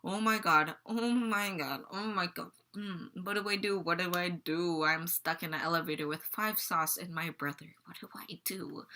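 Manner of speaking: retold mild panic, fading out at the end; mildly panicking. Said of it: "just kinda panicking".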